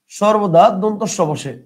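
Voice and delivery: each word drawn out for writing down; slow dictation. Shown as a demonstration. Teacher dictating the rule slowly to students. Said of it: "লিখেন".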